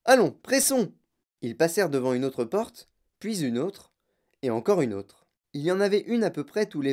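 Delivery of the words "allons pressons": high, loud, urgent hurry-up; Monsieur Wonka crying out. A narrator's reading. Wonka hurrying the group past doors, calling out. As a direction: chivvy them along, high and loud. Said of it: "cria monsieur Wonka".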